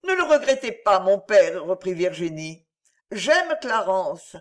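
put-on a girl gathering her courage; young heroine Virginie, resolved. Virginie answers her father.

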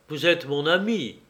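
sérieux et posé, descente sur «ami»; d'un air grave. Acted. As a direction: parler gravement à son ami. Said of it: "dit Lionel d'un air grave". (Lionel, grave, à Henri)

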